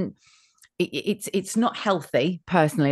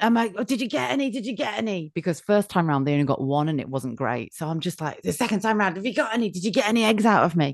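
anxious asking; 3 semitones higher than usual. Retold or imitated. Anxious patient asking husband.

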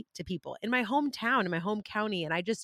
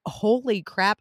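retold amazement; 2 semitones higher, 6 dB louder, much slower than usual. Retells her amazed realization.

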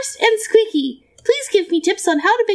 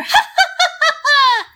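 staccato evil laugh; 8 semitones higher than usual. Shown as a demonstration. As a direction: hit each "ha" on a falling note. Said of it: "very staccato with your breaths".

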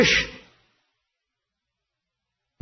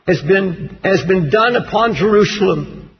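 low, measured scripture reading; 4 semitones lower than usual. Real, not acted. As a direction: read the prayer gravely. Reads Daniel nine aloud.

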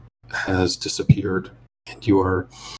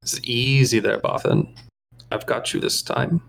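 whining alien voice; 3 semitones higher than usual. Acted. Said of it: "a high kind of whining voice".

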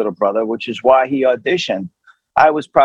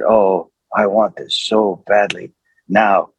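earnest longing; 5 semitones lower, slower than usual. Retold or imitated. Retold earnest inner longing.

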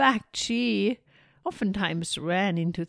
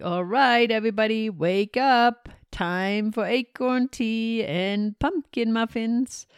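calling out; 3 semitones higher than usual. Acted. Gnome calling friends awake.

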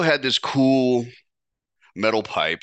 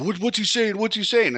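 much higher mock voice, nervous; mocking the boyfriend; 12 semitones higher than usual. Boyfriend in the background asking what he said, high mock voice. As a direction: squeak it like a panicky boyfriend. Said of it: "I heard her man".

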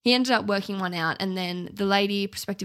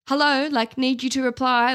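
mock impatient nudge; 4 semitones higher, 4 dB louder than usual. Acted impatient follow-up message.

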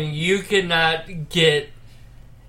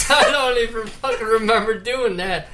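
trying not to laugh; 3 semitones higher, faster than usual. Real, not acted. Laughing at his forgotten plug.

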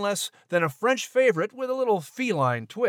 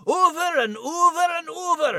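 high Scottish brogue, pitched up; a pitched-up Scottish lass voice; Scottish accent; 9 semitones higher than usual. Acted. Scottish terrier teasing the French cat, in high Scottish brogue.

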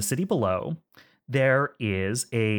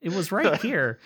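mildly panicked, higher-pitched muttering to self; flustered searching; 6 semitones higher than usual. Acted. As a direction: hunt for lost notes, tripping over words. Acting out searching for lost notes.

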